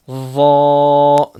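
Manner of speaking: ضا said heavy in a breathy whisper; bold ضا. Shown as a demonstration. Teacher shows a bold letter in a whisper. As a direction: whisper ضا thick. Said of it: "دونوں کو بھی موٹا پڑھنا ہے".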